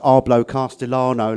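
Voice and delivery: imitating Spanish with a thick London accent; North London-accented Spanish. Guest imitates his friends' Spanish, in a North London accent. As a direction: mangle the Spanish like a Londoner abroad. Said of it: "Kind of way that some of my friends speak Spanish".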